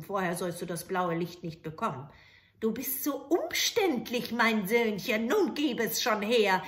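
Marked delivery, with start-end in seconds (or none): 2.6-6.6 put-on louder, pushy old hag; impatient witch. Witch demanding the light, impatient. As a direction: demand it, losing patience.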